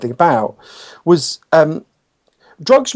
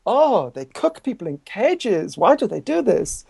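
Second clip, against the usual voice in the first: slow, higher mock French accent; 6 semitones higher, 4 dB quieter, slower than usual. French interviewer asking about the cages, in mock French accent. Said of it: "Sorry, my French accent".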